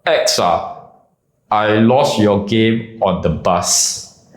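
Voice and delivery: timid, hesitant mumble, slow; a low-confidence guy mumbling an excuse; meek guy's voice. Retold or imitated. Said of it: "he goes like".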